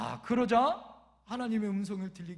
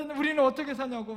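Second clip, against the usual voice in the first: louder, higher mock complaint; retold tearful protest; 4 semitones higher, 7 dB louder than usual. Eldest daughter protesting to dad, mock crying. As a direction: imitate a child's wail, hammed-up. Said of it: "막 울었다는 거예요".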